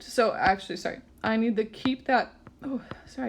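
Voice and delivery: talking through hiccups; interrupted by a hiccup. Real, not acted. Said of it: "I got the hiccups".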